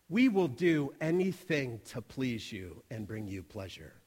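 low, soft, measured promise; soothing host. Retold or imitated. Hosts promise the customer anything to please her, soft and soothing.

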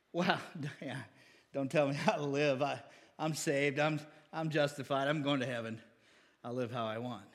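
low, soft mock of a stubborn member; defiant church member. Pastor mimics member refusing advice on living, low and dismissive. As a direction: mutter it back like you won't be told.

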